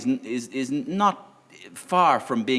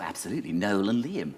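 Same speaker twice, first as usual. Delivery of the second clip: softer, smooth politician impression; imitacja Tony'ego Blaira; 3 semitones lower, 7 dB quieter than usual. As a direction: lightly mimic the prime minister. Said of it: "Blair was the same".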